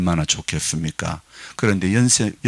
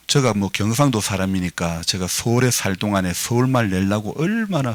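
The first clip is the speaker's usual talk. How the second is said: ordinary delivery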